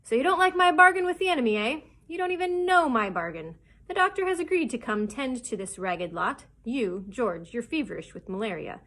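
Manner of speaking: loud, animated pirate harangue; shouting. A narrator's reading. Captain defending his bargain to the crew, shouting. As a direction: argue forcefully, jumping high on the challenges. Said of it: "Silver was shouting by now".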